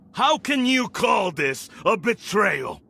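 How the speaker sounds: rising, outraged retort; indignant shout. Acted. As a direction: throw the word back at her, affronted. Lord rebuts accusation of betrayal.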